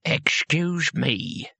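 flatly. A narrator's reading. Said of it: "he said flatly".

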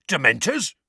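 mildly shocked echo; aghast. A narrator's reading. Mundungus learning of the Dementors, mildly aghast.

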